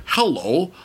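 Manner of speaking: slow, stilted fake American accent from a Chinese actress; mock an actress straining at an American accent, slowly; mock bad American accent. Host mocking the actress's forced American accent, slow and stilted. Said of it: "sounds like Doctor House doing an American accent".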